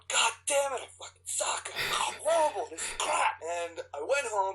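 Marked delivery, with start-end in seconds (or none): 0.1-3.4 frustrated, muttered self-abuse; angry self-cursing. Retold or imitated. Actor cursing himself in the elevator, frustrated mutter. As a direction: curse yourself under your breath in frustration. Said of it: "I start punching the wall, going".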